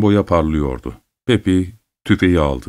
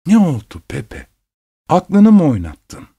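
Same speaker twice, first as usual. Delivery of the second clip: high, alarmed mother's voice; startled, rising to a near cry; 8 semitones higher than usual. Acted. Mother to son wanting the mountains, alarmed high voice.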